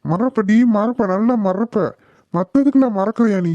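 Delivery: irritated scolding, mildly heated; acted anger. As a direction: grumble crossly at a family member. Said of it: "கோவப்படாதீங்கப்பா".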